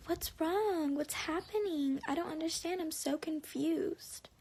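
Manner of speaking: imitating feigned bewilderment, lilting; exaggerated clueless friend imitation; mock confusion. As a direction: play up the confusion, stretching the last words. Mimicking friend acting clueless.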